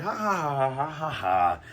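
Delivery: spelled-out villain laugh in a put-on voice; mock villain laugh. Buggy laughing as Luffy flies into a building, mock laugh. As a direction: ham up Buggy's taunting laugh. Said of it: "laughing, laughing, like".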